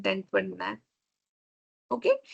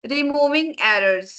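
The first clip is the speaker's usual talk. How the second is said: slow heading; 2 semitones higher, much slower than usual. Shown as a demonstration. Teacher announces topic heading slowly.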